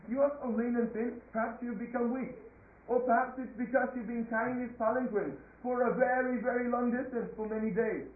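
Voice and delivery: mildly acted royal sarcasm; sarcastic king. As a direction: taunt with exaggerated feigned concern. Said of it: "Again, he was being so sarcastic".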